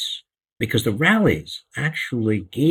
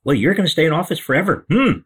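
mock Trump gloating; 6 semitones higher, 4 dB louder than usual. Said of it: "he'd make little jokes about it".

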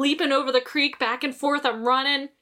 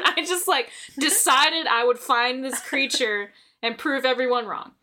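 ordinary talk

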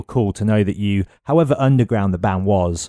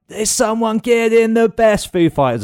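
announcer voice; 13 semitones higher, 4 dB louder than usual. Retold or imitated. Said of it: "then it'd be like".

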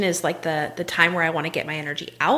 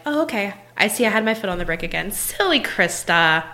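kind self-talk. Shown as a demonstration. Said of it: "if we just talk to ourselves like this".

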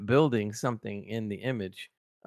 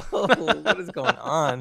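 laughing; 3 semitones higher than usual. Retold or imitated. Laughing retelling own reaction.

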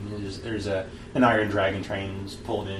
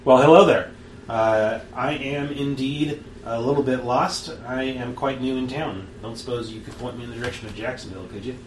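lightly voiced polite young gunslinger; polite stranger voice; 3 semitones higher, 4 dB louder than usual. Game master voicing the lost newcomer to the player, lightly voiced polite stranger. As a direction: play the courteous newcomer asking the way. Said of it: "try and do my voice without slipping".

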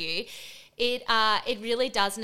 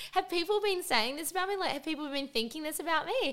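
upset; 8 semitones higher than usual. Retold or imitated. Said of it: "I was so upset".

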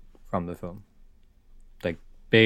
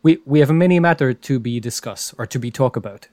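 loud, higher-pitched broken English in a mock Greek accent; Russell Crowe; 4 semitones higher, 7 dB louder than usual. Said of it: "Why does he talk in a broken English accent?".

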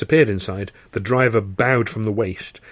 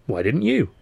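higher pitch, "you" swooping up; retort, stress on "you"; 4 semitones higher than usual. Acted. Turning a friend's question back, stressing "you". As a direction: throw it back with weight on "you".

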